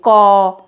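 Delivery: a teacher's careful model of क; clear demo of क. Shown as a demonstration. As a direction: sound out क for the class so the अ comes through. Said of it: "जैसे हम क बोलेंगे".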